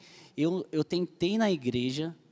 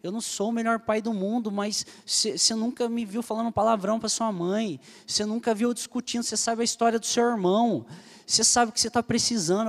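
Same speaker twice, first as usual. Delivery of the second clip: a hint of the father's angry yell, pitched higher; retold angry father; 6 semitones higher than usual. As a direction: retell dad's outburst with a mild raised voice. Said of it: "meu pai deu um grito".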